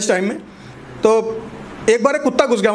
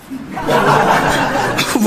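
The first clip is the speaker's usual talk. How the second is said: breathy laugh; 3 semitones higher than usual. Real, not acted. Laughing after punchline.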